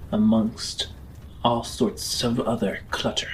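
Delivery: steady, measured scene-setting narration; lightly dramatic GM storytelling; game master narration. Acted. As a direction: paint the journey for the players.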